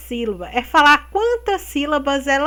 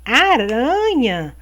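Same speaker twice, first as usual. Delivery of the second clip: slow aranha; slower than usual. Shown as a demonstration. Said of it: "Presta atenção na forma de falar".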